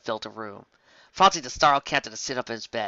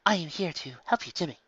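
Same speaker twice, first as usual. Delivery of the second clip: strict tone; 4 semitones higher, 4 dB quieter than usual. A narrator's reading. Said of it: "said in a strict tone".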